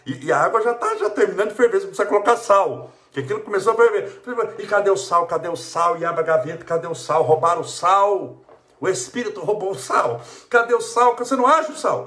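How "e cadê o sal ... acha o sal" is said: a hammed-up cook in a fluster; frantic searching. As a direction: rush about hunting the salt in a fluster.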